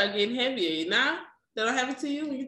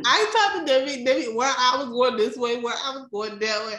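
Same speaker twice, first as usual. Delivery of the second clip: woozy drugged voice; 3 semitones higher than usual. Retold or imitated. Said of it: "so high".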